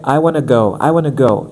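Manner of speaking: "I wanna go" in a Portuguese accent, voice up; home-language placement. Shown as a demonstration. Coach demos "I wanna go" in a Portuguese accent. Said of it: "with your placement from your home language".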